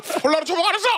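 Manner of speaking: put-on high, scolding old lady with laughs; foul mouthed granny. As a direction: bark at him like a cranky granny. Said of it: "욕쟁이 할머니".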